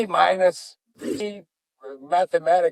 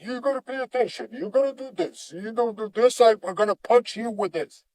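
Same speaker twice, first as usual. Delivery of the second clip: higher-pitched mock scolding; lecturing teacher; 5 semitones higher than usual. Mocking teachers who order a kid to pay attention, high-pitched lecturing. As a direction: imitate a nagging lecturer without raising the volume. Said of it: "Because he never lectured me".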